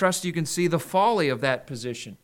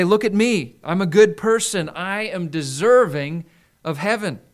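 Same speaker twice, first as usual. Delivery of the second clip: louder, proud claim of being good; self-righteous boast; 6 dB louder than usual. Retold or imitated. Preacher voicing the self-righteous claiming heaven, boastful. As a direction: puff yourself up before heaven. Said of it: "They'll say".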